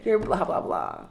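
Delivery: customer service voice. Retold or imitated. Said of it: "It's like".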